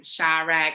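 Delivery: "Chirac" said as SHY-rack; first syllable of "Chirac" like shy; alternate pronunciation. Shown as a demonstration. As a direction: say "Chirac" with an EYE vowel. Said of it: "I pronounced her name three or four different ways".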